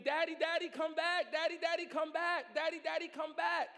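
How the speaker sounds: high, loud panicked cry for daddy; child screaming. Acted. Scared child calling to father from branch, panicked screaming. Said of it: "that child starts screaming".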